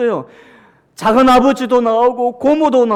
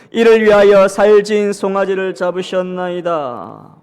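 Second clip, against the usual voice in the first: scripture reading; 4 dB louder than usual. Acted. Congregation reads verse aloud.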